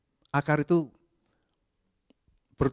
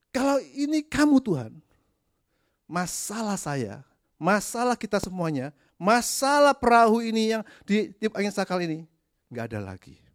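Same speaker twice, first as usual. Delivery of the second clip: mocking Peter's demand; 7 semitones higher than usual. Preacher mocks Peter demanding that Jesus calm the storm, high and whiny. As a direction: test God like a pushy child.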